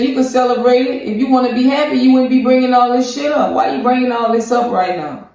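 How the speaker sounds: imitating a fed-up boyfriend; mock annoyed. Acted argument retold from Gino.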